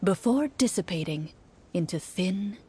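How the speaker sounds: game master voice sinking to a whisper; dramatic narration. Acted. Game master describes monsters vanishing, fading to whisper. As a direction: let the last words fade into a hush.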